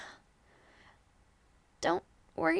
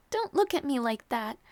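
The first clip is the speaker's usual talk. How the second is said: half laugh, half cry; teary laugh. Acted. Lady telling her worried knight not to stare, laughing through tears.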